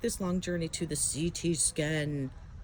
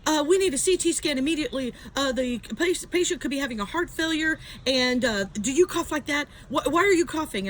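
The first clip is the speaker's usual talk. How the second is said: higher, mildly flustered mock doctor; acted-out urgent fussing; doctor in a tizzy; 5 semitones higher than usual. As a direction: imitate a doctor raising a needless alarm. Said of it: "it sent her into an absolute tizzy".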